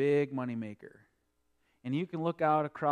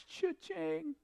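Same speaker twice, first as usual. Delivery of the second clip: cha-ching; 13 semitones higher, 7 dB quieter than usual. Retold or imitated. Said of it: "he's saying to himself".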